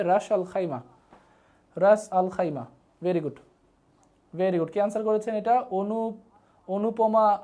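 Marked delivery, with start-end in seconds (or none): 0.0-2.7 "রাস আল খাইমা" said as three distinct words; pronunciation demo. Shown as a demonstration. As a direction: model the full name "রাস আল খাইমা" for learners. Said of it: "এটা উচ্চারণটা হবে". ("রাস আল খাইমা"-র স্পষ্ট উচ্চারণ দেখানো)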